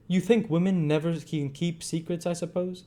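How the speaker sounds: challenging matron. A narrator's reading.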